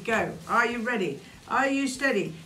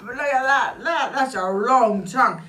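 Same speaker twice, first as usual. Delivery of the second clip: excited; 4 semitones higher, 8 dB louder than usual. Real, not acted. Showing the long tongue.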